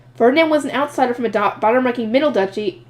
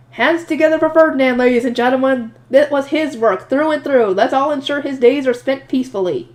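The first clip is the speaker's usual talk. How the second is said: raised, projecting announcer voice; sports announcer. Acted. Promoting Ferdinand to everyone as composer, mock sports announcer. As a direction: work the crowd up for applause. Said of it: "feel very much like a sports announcer".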